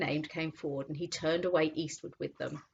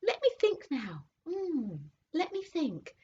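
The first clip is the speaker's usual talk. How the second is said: thoughtful horse; 8 semitones higher than usual. A narrator's reading. Horse remembering the cab, thoughtful. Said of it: "said the horse thoughtfully".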